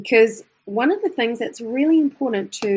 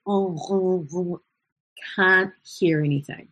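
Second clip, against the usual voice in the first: nasal demo; much slower than usual. Shown as a demonstration. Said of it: "something being nasal".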